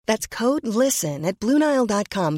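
upbeat promo read. Acted. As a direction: read the offer like a radio spot.

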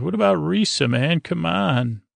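imitating a buddy's cajoling; coaxing. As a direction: talk him into it, pitch lifted. Acted coaxing of a reluctant captain.

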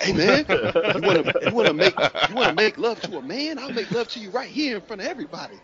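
high, loud, laughing tough-guy taunt; mock prisoner taunt. Prisoner taunting scared kids on TV, hammed-up high laughing voice. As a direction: ham up a prisoner daring the kids.

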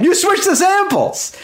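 very high, strained mock shout; imitated loud yell. Repeating it to the confused theater guy, high mock yelling. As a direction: yell it like a heckler, volume held back. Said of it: "And as loud as I can".

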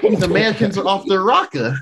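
mock British accent. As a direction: playfully imitate an indignant British listener. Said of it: "Any U K listeners could be like".

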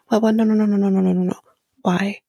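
rapid-fire mock string of refusals; retold freak-out. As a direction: imitate someone mildly panicking, nos running together. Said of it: "she's freaking out here".

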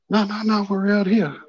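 high, protesting call. Retold or imitated. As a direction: call back to him. Calling back to mate.

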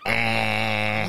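drawn-out Scottish "Eh"; shaky attempt at Scottish; Scottish accent. Shown as a demonstration. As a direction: find your way into a Scottish accent. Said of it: "That's how I do my Scottish accent".

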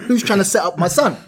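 a touch of protective panic; panicking mum. Retold or imitated. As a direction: imitate an indignant, panicking mother. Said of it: "'Cause my mum's panicking".

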